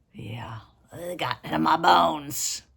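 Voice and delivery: whisper. Acted. Hushed aside after singing.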